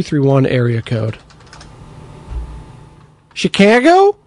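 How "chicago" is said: high-pitched, badly faked Chicago accent. Host guessing a caller's area code, bad Chicago accent. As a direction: toss out a horrible mock Chicago accent as a question. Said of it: "That was a horrible accent".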